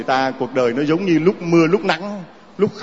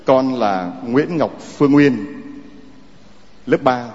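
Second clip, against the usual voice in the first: put-on gentle read-aloud of a child's letter. Priest reads child's letter aloud.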